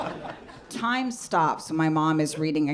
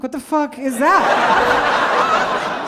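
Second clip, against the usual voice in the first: outraged disbelief; 8 semitones higher, 7 dB louder, much slower than usual. Retold or imitated. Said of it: "I'm like".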